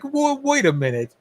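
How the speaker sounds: taken aback. Retold or imitated. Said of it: "And you're like".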